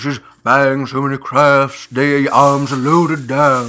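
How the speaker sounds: put-on fussy husband voice; fretting husband. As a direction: complain to dear as a worried husband. Plays fretting husband in a bit.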